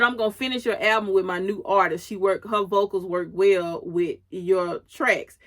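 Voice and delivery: brisk, no-nonsense boss delivery, lightly acted; retelling a label boss laying down terms; boss mode. Label owner dictating terms to her artist, mock boss mode. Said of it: "straight boss mode".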